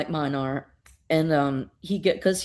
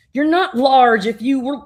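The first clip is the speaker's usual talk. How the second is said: taunting; 6 semitones higher, 8 dB louder than usual. Retold or imitated. Supergirl taunts the giant.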